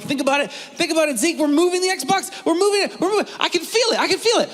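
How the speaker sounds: high, hammed-up mystic chant; mock mystical. Dad hamming up magic to trick his son, high mock voice.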